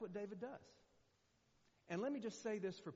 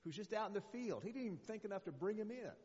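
higher voice, brushing off his youngest son; dismissive father; 7 semitones higher than usual. Retold or imitated. Father telling Samuel the last son is only out in the field, offhand and higher. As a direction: wave the boy off, a bit higher and offhand. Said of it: "And he goes".

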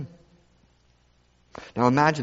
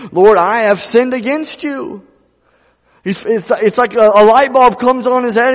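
full force preaching; 11 semitones higher, 9 dB louder than usual. Acted. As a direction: preach it hard to the church.

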